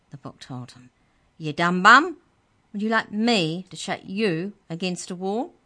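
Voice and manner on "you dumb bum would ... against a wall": loud, high, indignant squeak; a tiny creature scolding its attacker; high squeaky rage. Acted. The book elf scolds Trent for throwing it, squeaky and loud. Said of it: "The book's voice was high and squeaky".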